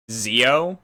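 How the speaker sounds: Zio said with a plain z; spelling pronunciation. Shown as a demonstration. Co-host explaining how a Kamen Rider's name is spelled, Zio with z. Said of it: "His name is spelled with a, like".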